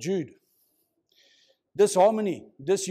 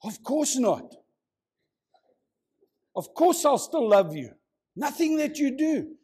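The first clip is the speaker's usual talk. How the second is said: husband's quick save; 6 semitones higher than usual. Retold or imitated. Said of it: "full of wisdom, says".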